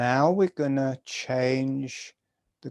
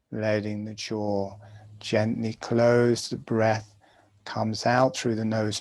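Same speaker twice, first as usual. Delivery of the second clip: guided meditation. Acted. Teacher guiding students through jaw breathing, calm meditation voice. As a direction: talk them gently through each breath.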